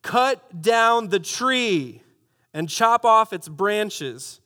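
very slow, drawn-out decree; called out loudly. Acted. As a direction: hammer out each word like a royal command. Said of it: "He called out loudly".

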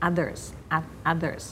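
"others" opening with a short uh; short A vowel. Shown as a demonstration. Teacher correcting everyone's others, short-vowel pronunciation. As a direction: keep the first vowel of "others" short, as UH-thers. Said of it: "ด้วยเสียงอะ".

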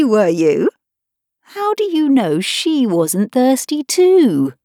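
a little girl playing judge to her kitten; Alice, mock-stern. A narrator's reading. Alice listing faults.

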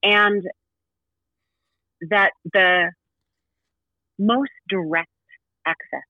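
slow, gentle guide voice. Acted. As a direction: linger on each phrase.

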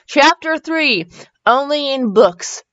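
slow, deliberate title reading; chapter announcement. A narrator's reading. Reads out chapter heading again.

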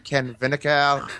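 weird joke phone voice. Retold or imitated. Cold calling for donations, in a weird joke voice. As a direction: play a silly cold caller to keep them on the line. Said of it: "like a weird jo".

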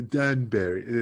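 slow mimicry of the host's accent; drawn-out Danbury in a teasing borrowed accent; imitating host's accent. Guest teasing host over the town's name, mock accent. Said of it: "with your accent".

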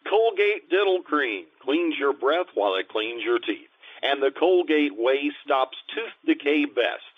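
smooth announcer voice, selling the product; radio announcer read. Acted. Announcer to listeners before the sponsor ad, smooth announcer read.

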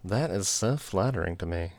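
lightly put-on British gentleman accent; a hint of mock-British period drama; Mr Darcy accent. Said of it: "He's talking like Darcy from Pride and Prejudice".

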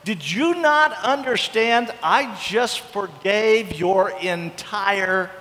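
slow, drawn-out disbelief; a slow, pained are you serious; incredulous God. Retold or imitated. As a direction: stretch it out as if you can't believe it. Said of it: "He's like".

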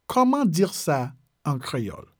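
"Comment dire ça", slight pause, "en créole"; measured, phrase by phrase for learners. Shown as a demonstration. Teacher repeats French phrase slowly.

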